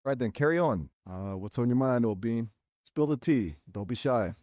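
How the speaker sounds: put-on British accent; hammed-up British accent. Shown as a demonstration. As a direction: play up a chatty British voice. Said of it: "keep talking in a British accent".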